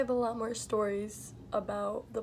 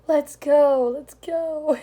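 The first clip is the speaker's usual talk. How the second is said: louder, higher urgent push; 5 semitones higher, 12 dB louder, much slower than usual. Retold or imitated. Waitress urging her coworker to flee, urgent. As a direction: hurry him out the door.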